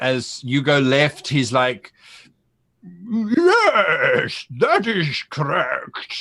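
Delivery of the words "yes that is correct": slow, high, garbled mumbling through donkey noises. Voicing a disguised donkey talking as the player goes left: garbled donkey mumbling. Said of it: "it's a very garbled kind of sound".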